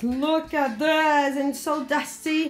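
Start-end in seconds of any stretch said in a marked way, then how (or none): 0.0-1.4 "Look at this" stretched very slow, x0.4; drawn-out look at this. Shown as a demonstration. Mum showing viewers the mess, "Look at this" very slow. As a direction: drag out "Look at this" slowly. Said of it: "look at this, said twice".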